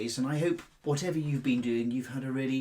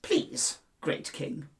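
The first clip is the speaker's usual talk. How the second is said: lightly voiced mouse begging; much slower than usual. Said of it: "cried Mouse".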